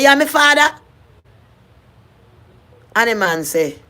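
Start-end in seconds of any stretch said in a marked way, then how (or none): 0.0-0.8 much higher and louder, hopeful; eager question. Retold or imitated. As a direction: reach out eagerly to a long-lost father. First phone call reaching her father.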